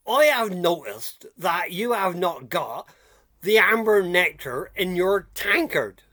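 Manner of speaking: slow, deliberate quoting of a complaint; measured, spaced-out phrases; mock-formal complaint. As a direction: spell out the grievance with mock gravity. Reads out a viewer's complaint.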